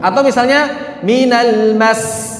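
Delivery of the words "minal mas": slow "minal mas", the s cut short; wrong reading. Shown as a demonstration. Teacher showing students the wrong "mas". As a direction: drop the held s of "mas". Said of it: "Tidak dibaca minal mas".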